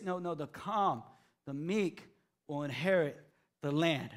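soft calm reply; gentle correction. Real, not acted. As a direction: quietly set them right.

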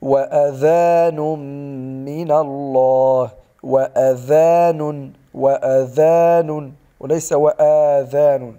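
وآذان repeated slowly, vowels set apart; slow, careful model of وآذان; tajweed correction demo. Shown as a demonstration. Teacher drills the correct وآذان for the student. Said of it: "بل وآذان".

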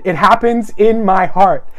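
slow, measured words for repeating; slow call-and-response. Real, not acted. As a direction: lead listeners through it word by word. Leading congregation to repeat line.

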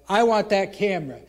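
firm demand. Retold or imitated. Demanding camera back.

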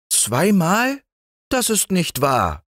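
high, defiant denial. A narrator's reading. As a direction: throw it back as a stubborn wife. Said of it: "rief die Frau trotzig". (trotzig widersprechend)

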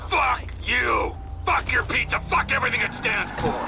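ranting shout; angry yelling. Acted. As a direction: curse everything he offers. Rejecting partner's offer angrily.

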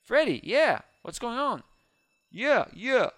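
high, loud eager calls; excited cheering. Real, not acted. Heading into the bank, calling out with high excitement. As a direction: hype yourself up to go in.

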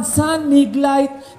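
ゆっくり伸ばす広告キャッチコピー; CMのナレーターのように言葉を引き伸ばす; slow ad tagline. Retold or imitated. Beer ad tagline quoted.

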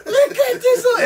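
high mocking voice laughing at him; laughing woman. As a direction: crack up at the guy, pitched high. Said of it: "She's over there like".

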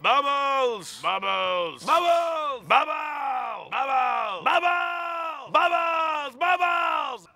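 shouting bubbles repeatedly; calling out. Acted. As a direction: call out excitedly. Calling out to a pet.

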